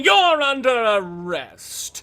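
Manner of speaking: loud, slow, high heroic proclamation; pompous detective shouting an arrest; booming hero's arrest. Acted. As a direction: bellow it like a pompous lawman. GM voices arresting hero.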